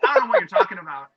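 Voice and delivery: high, fast, loud mock innocence; a high-pitched put-on denial; feigned innocence. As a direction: play dumb, hammed up and quick. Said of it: "He's like".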